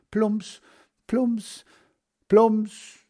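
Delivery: high, bouncy plumps; playful splash sounds. Acted. Boy throwing chestnuts, narrator mimics splashes. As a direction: make each plop sound fun.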